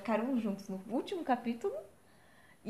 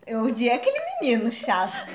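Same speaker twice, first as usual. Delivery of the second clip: laughing; 7 dB louder than usual. Real, not acted. Laughs while complaining.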